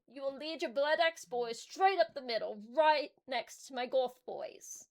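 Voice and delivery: a hint of a warboss laying down orders; orc warboss.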